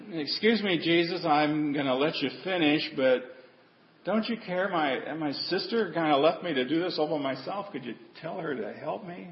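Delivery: soft, politely restrained plea; polite quiet request. Retold or imitated. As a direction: ask sweetly and quietly, holding back. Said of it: "I don't think that's the way she said it".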